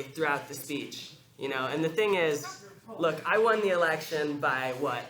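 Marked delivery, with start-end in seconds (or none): 3.0-5.0 Trump impression. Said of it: "I'll do my Trump".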